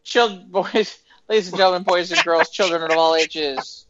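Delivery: loud ringmaster opening; announcer voice. Acted. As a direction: boom it out like a circus host.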